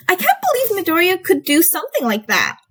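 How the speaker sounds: high, amazed exclamation; exclaiming. A narrator's reading. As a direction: blurt it out in disbelief, pitched well up. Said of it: "Ashido exclaimed".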